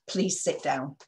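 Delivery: calm courteous please; a friendly professional ask; polite request. Shown as a demonstration. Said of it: "we generally need to be at".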